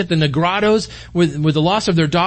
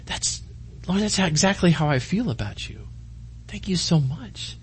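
tender whispered prayer; 6 dB quieter than usual. Retold or imitated. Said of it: "I'm just like".

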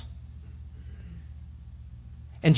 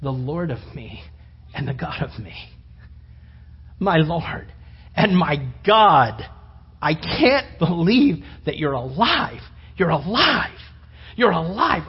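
awed worship; 2 semitones lower than usual. Acted. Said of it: "he dropped and he said".

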